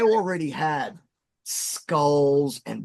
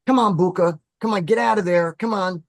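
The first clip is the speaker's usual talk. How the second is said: louder, higher urgent coaxing; wife calling the cat; 4 semitones higher, 4 dB louder than usual. Retold or imitated. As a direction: call the cat out, mildly exasperated. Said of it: "my wife is like".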